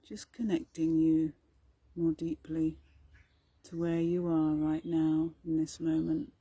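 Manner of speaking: calm, even meditation delivery with long pauses; guided meditation. Acted. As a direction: gently guide listeners inward, leaving space between phrases.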